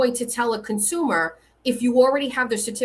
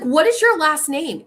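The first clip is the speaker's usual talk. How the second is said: insistent demand; 6 semitones higher, 4 dB louder than usual. Retold or imitated. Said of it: "I was like".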